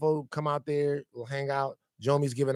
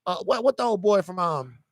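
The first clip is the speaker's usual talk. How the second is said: put-on lightly raised old-timer voice; a hint of a rambling old man; old man Isaiah voice; 5 semitones higher than usual. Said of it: "is Isaiah in the room with us right now?".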